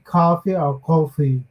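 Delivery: first "coffee" open "kah-fee", second rounded "koh-fee"; comparing accent vowels. Shown as a demonstration. Trying out how New York or Boston says it, compared vowels. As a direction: contrast "ah" and "oh" in "coffee". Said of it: "or Boston, they say".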